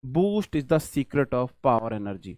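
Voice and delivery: slow, drawn-out ad jingle delivery; ad slogan. Retold or imitated. Teacher recalling a TV ad, slow jingle read. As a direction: savour it like an old TV ad tagline. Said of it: "आपने सुना होगा".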